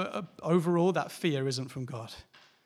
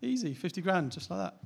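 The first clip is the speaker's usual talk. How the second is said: breezy; 4 semitones higher than usual. Retold or imitated. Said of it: "they say it like that".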